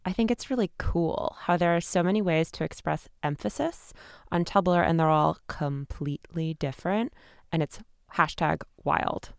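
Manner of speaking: performed Tumblr post, each emphasis marked; hammed-up reading of a Tumblr post; emphatic Tumblr read. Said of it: "read in the proper emphasis".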